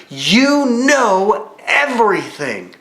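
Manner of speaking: a slow, drawn-out You know everything; slow, earnest. Retold or imitated. Peter tells Jesus he knows all, slow and earnest. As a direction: say it slowly with full conviction. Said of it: "Peter looks to Jesus and he says".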